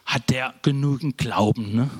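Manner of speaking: lightly voiced smug churchgoer, wait and see; a hint of a self-righteous bystander; gently mocking the pious watchers; mock pious onlooker. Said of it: "so in christlichen Kreisen wird man jetzt sagen".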